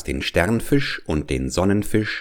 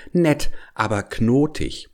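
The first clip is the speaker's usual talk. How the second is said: high, sly little fish; small clever voice; 5 semitones higher than usual. Acted. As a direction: chirp it like a crafty fish. Fish answers the whale.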